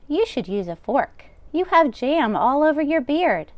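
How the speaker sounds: put-on old grandmother voice. Old baba taking the rabbi's coat, high and fussing. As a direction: bustle like a kind deaf baba. Baba voicing lines to Bear.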